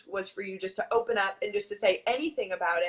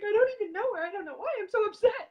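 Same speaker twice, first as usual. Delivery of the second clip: retold bawling; 11 semitones higher, 3 dB louder, faster than usual. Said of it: "I still remember bawling to Brian".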